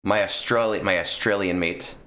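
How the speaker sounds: half-hearted attempt at an Australian accent; failed Australian accent. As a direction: try an Australian accent, badly. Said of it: "I can't do an Australian accent".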